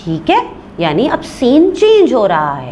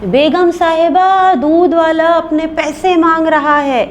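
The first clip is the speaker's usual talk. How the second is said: shouting; 8 semitones higher, 3 dB louder than usual. A narrator's reading. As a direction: call across the house to the lady. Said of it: "दरवाजे से चीख कर कहता है".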